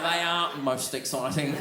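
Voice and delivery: slow, deliberate imitation of the clerk; measured, mock-earnest catchphrase; bragging hotel clerk. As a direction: draw it out with mock relish. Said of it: "He'd be bragging about it".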